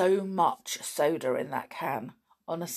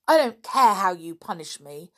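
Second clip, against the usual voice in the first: angry tears; 6 dB louder than usual. Acted. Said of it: "tears of anger".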